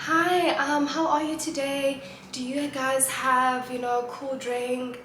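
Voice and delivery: mock-proper customer asking for cool drink; proper English at the shop. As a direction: put on a fancy polite English for the shopkeeper. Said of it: "English e la ya".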